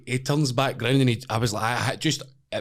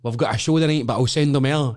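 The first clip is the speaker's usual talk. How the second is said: Dana White; 4 semitones higher, 4 dB louder than usual. Retold or imitated. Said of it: "and Dana White says".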